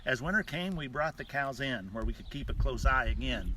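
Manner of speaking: rhythmic cowboy poem recitation; cowboy poetry. Shown as a demonstration. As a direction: recite it like a ranch poem at the campfire. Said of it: "with this cowboy poem".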